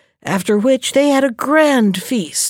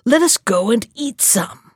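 exclaiming. Acted.

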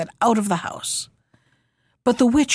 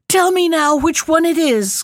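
higher, louder call from the witch; 6 semitones higher, 4 dB louder than usual. A narrator's reading. Witch demands Prunella name the cock, loud call. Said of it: "called the witch".

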